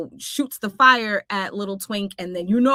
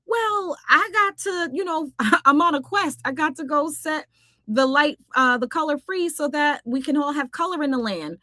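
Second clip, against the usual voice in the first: higher, lightly played heroine voice; acted Wisp explanation; 5 semitones higher than usual. Wisp tells the sprite about her quest, higher voice. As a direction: explain it in a pitched-up character voice.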